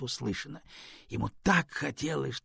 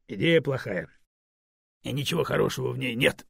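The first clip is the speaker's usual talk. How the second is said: flat cutting verdict; curt. Acted. Stone curtly rejects the Raven's idea. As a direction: chop the answer off. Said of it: "отрезал Камень".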